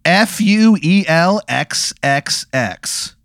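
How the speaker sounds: spelled out. Shown as a demonstration. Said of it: "it's spelled".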